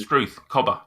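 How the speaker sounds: lightly put-on Australian slang; Australian accent. Shown as a demonstration. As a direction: ham up a little Australian. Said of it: "it's an Australian accent".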